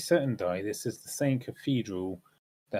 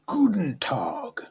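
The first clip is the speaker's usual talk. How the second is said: slow, barked German greeting, louder and higher; angry German shout; 5 semitones higher, 5 dB louder, much slower than usual. Retold or imitated. Player mimics the soldier, an angry German shout. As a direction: bellow Guten Tag like a furious guard. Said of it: "Really angrily".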